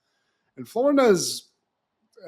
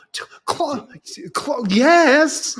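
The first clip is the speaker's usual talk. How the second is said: mock clogging squeal; 8 semitones higher, 6 dB louder, much slower than usual. Imitating the girl clogging.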